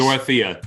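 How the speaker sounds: Dorothea with THEE in it, "dor-uh-THEE-uh"; first pronunciation. Shown as a demonstration. Co-host showing how the stream said the card name, Dorothea as "dor-uh-THEE-uh". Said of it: "they pronounced it t-, ... two different ways".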